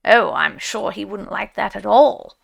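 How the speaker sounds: loud, alarmed protest; a quick, startled refusal. A narrator's reading. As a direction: blurt it out in sudden alarm. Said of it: "quite alarmed".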